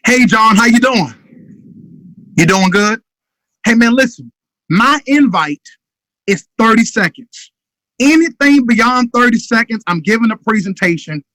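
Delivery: too long, rambling invite; the wrong way to invite; wrong phone invite. Shown as a demonstration. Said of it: "I know y'all tired of that noise. Eh, wrong".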